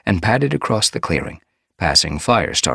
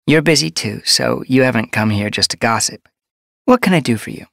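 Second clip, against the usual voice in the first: higher, kindly healer voice; gentle medicine cat; 9 semitones higher, 5 dB louder than usual. A narrator's reading. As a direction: advise a pregnant queen kindly.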